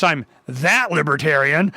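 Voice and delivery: normal talking voice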